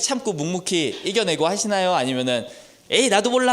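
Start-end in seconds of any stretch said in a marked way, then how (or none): 2.9-3.5 annoyed giving up. Retold or imitated. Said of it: "짜증내고".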